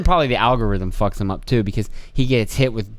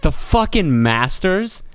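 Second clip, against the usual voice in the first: incredulous rant; 3 semitones higher, slower than usual. Retold or imitated. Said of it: "And I was like".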